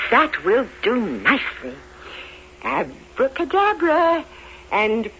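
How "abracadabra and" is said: theatrical magician. Acted. Spell for the gown.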